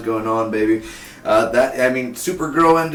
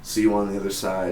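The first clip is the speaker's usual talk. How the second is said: formal farewell. Retold or imitated. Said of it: "sort of like".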